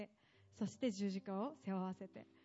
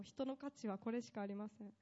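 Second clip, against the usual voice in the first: 人の価値はこれしかありません said softer, drawn inward; quieter repeat; 5 dB quieter than usual. Shown as a demonstration. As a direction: let it fall soft and settled.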